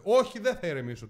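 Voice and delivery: loud retold retort; heated, defiant comeback; angry refusal. Told to calm down by the official, loudly refusing.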